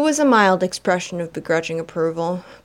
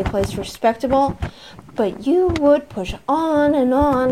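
haughty, higher complaining society lady; raised, disdainful nagging wife; Vera's voice; 3 semitones higher, 4 dB louder than usual. Acted. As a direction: sniff it out like a snobbish matron. Vera complaining, character voice.

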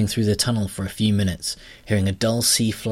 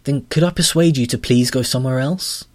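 politely pleading heroine; 5 semitones higher, 5 dB louder than usual. Acted.

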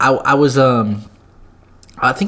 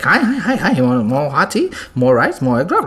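mock restaurant lady. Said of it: "where the lady's like".

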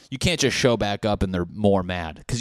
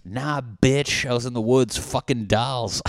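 loud, higher, brash retort; cocky comeback; 4 semitones higher, 5 dB louder than usual. Acted. Returning man answering shocked friends, cocky and loud. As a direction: throw it back boldly and loud.

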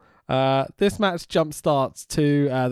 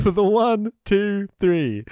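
higher, louder count, punching each number; excited pinfall count; 9 semitones higher, 4 dB louder, slower than usual. Acted. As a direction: call the winning three count.

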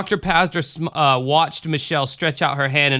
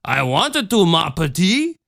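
put-on gentle Cajun accent, higher than the narration; Ma Marie; 4 semitones higher than usual. A narrator's reading. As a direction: Cajun mother, lilting reply. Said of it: "ma Marie responded gently".

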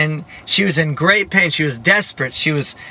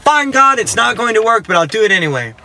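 mock grudging surrender, starting high; exasperated, hammed-up concession; retold giving in; 4 semitones higher than usual. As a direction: replay the giving-in, pitch falling to the end. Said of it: "I finally gave up and I said".

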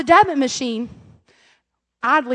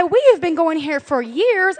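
slow, emphatic indignant protest; 3 semitones higher, slower than usual. Retold or imitated. Mom protesting to the receptionist, indignant. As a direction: spell it out indignantly.

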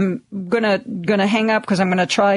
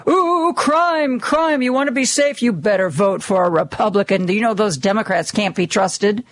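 mocking Republican scare talk. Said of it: "It's a Republican talking point".

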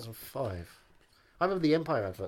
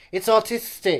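excited; 10 semitones higher, 9 dB louder, slower than usual. Acted. Mock exclaiming about the film.

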